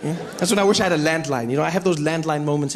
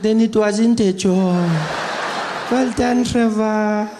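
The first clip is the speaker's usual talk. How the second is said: granny voice; 3 semitones higher, 4 dB louder, much slower than usual. Retold or imitated. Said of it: "She's like".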